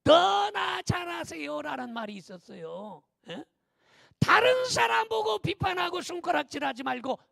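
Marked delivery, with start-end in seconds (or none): 0.0-1.9 high, loud, long-drawn call; emphatic catchphrase. Real, not acted. Preacher throwing a catchphrase at the congregation, emphatic drawn-out call. 4.2-7.2 high, loud sermon admonition; forceful preaching. Real, not acted. Pastor warning against pointing fingers at others, forceful preaching.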